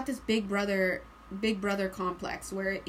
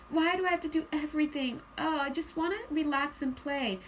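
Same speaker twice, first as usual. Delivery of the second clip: mildly whining complaint, starting higher; reluctant; 3 semitones higher than usual. Acted. Reader voicing overburdened Aquarian, reluctant complaint. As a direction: grumble like someone overdue a break. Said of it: "That's the energy I'm getting from Aquarius".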